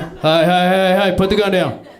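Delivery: restrained first challenge; far right guy. Acted. Comic playing a far right guy confronting someone, restrained command. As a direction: order it firmly without shouting. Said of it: "The far right, they'd have their questions".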